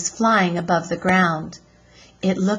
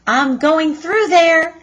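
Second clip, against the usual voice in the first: put-on high, loud girl's cry over the bumps; a bouncy, thrilled shout; excited shout; 9 semitones higher, 6 dB louder than usual. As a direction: call it out over the engine noise. Annie shouts on wild ride.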